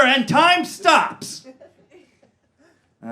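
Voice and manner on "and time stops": drawn out very slowly; dramatic slow-motion. Retold or imitated. Narrating the instant it goes wrong, dramatic slow. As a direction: let the moment hang.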